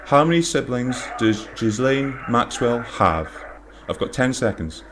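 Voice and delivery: drawn-out quiz host suspense; game show host voice. Pretend. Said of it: "I need to put on my game show host voice".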